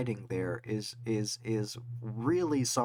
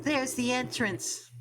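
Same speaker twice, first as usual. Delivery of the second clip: excited; 10 semitones higher than usual. Acted. Spotting the entrance, high and slow.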